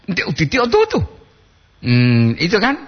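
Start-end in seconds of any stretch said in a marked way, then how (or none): 0.1-1.0 high sing-song regional Gorontalo lilt; other-region Gorontalo. Retold or imitated. Host imitating how Poliwolo speakers sound, high regional Gorontalo. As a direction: mimic the Poliwolo Gorontalo tune, pitched up. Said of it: "I Poliwolo di wilayah lain".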